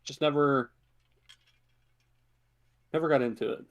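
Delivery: ordinary delivery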